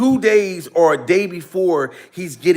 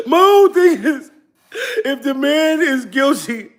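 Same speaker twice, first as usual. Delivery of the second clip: mock crying; 5 semitones higher than usual. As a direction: whimper it out like a hammed-up mourner. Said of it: "I've been down here crying".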